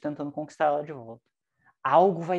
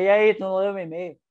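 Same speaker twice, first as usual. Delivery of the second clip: pitched-up challenging jab; confronting the boss; 5 semitones higher, 4 dB louder than usual. Pretend. Employee barging in, challenging the boss about the unread email. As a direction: call him out, needling.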